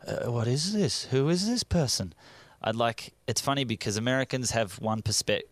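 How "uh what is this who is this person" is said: baffled onlookers. Retold or imitated. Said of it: "they just look at me like".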